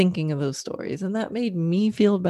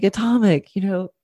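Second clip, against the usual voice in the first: higher, admiring chat to her horse; fond praise to horse; 4 semitones higher than usual. Retold or imitated. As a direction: tell him how cool he is. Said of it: "I was like".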